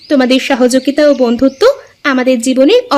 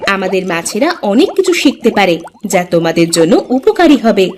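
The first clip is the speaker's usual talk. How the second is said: a lower, steady workshop leader; low teacher voice; 6 semitones lower than usual. Acted. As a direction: speak down low like an instructor. (নিচু গলায় শিক্ষকের মতো বলা)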